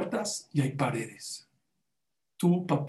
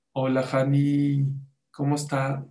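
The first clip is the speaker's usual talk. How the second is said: sweet greeting. Retold or imitated. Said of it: "No sé en qué dulzura le habló".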